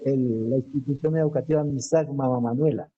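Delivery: ordinary talk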